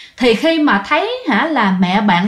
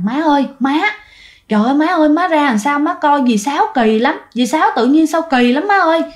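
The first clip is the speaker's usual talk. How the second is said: panicked call; 4 semitones higher than usual. Acted. Mother runs up panicking.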